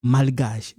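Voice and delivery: "malgache" with a clearly audible l; pronounced L. Shown as a demonstration. Teacher contrasting silent and spoken letters, sounded L. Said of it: "this one, we pronounce".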